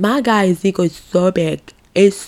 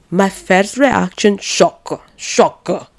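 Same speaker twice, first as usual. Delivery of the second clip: put-on Italian accent; 2 semitones higher, much slower than usual. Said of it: "as he would say with his Italian accent".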